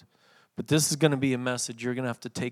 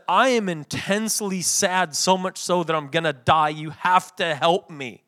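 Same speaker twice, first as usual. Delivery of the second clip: raised, insistent imagined demand for help; mock desperate plea; 3 semitones higher, 4 dB louder than usual. What Jesus didn't say to friends, mock desperation. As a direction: plead urgently, as a hypothetical. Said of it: "notice what he also didn't say".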